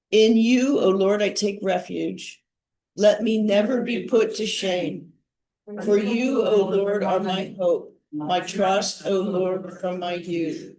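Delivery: slow, measured psalm reading; meditative prayer. Real, not acted. Leader praying a psalm with the morning group, meditatively. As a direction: pray it aloud deliberately, pausing after each phrase. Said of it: "say it slowly and sort of more meditatively".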